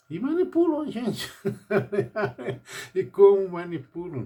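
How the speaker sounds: high, breaking into a laugh; scoffing laugh at the memory. Real, not acted. Bitter laugh about manipulation.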